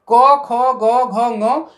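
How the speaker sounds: क, ख, ग, घ, ङ each said clearly and separately; letters recited slowly for the class; reciting letters. Shown as a demonstration. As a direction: sound out क, ख, ग, घ, ङ one by one like a teacher. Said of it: "इसको कहते हैं क वर्ग".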